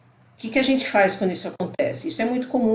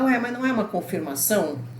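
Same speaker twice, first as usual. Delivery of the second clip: mild surprised "Ué" falling; puzzled question; 3 semitones higher than usual. Retold or imitated. Teacher voicing a viewer's objection, mildly surprised. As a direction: ask it with a touch of surprise. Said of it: "você vai falar".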